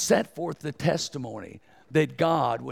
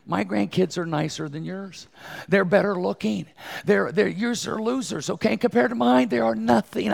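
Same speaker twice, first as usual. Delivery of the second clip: hammed-up bragging, climbing higher; mock boasting; 6 semitones higher than usual. Preacher jokingly brags his grandkids beat yours, mock boast. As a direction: playfully gloat over rival grandparents.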